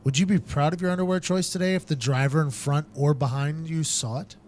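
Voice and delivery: punchy, exaggerated sponsor pitch; announcer-style podcast promo; ad read. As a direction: sell it with deliberate emphasis. Host reads sponsor ad.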